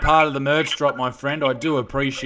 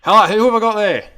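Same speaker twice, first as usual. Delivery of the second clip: bright, loud radio-host hello; cheery phone greeting; 7 semitones higher, 9 dB louder than usual. Acted. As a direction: greet the caller like a DJ. Host answering caller on phone.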